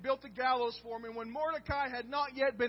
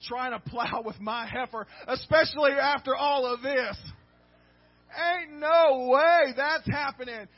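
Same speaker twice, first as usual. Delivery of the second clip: loud, indignant king's outburst, building to a yell; the king can't believe his eyes and lets it rip; outraged king; 9 dB louder than usual. Retold or imitated. Preacher voicing the king, outraged at Haman on the couch, loud indignant outburst. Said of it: "Xerxes basically said".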